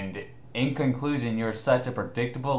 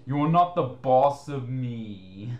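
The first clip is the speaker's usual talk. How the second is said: slow mocking impression of the critic; lightly voiced whiny critic; mocking quote; 3 semitones higher, 3 dB louder than usual. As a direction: drag it out mockingly. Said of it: "I just like how he says, again".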